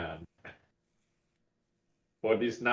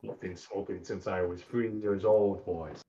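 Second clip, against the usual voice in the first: grinding stone gravel voice; 4 semitones lower, 5 dB quieter than usual. Acted. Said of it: "That really low gravel".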